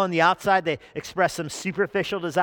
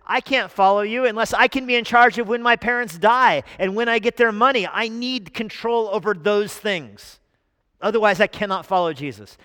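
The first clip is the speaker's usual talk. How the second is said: higher, louder whiny demand; mock demanding disciple; 6 semitones higher, 8 dB louder than usual. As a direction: insist on control, high and loud. Voicing second disciple.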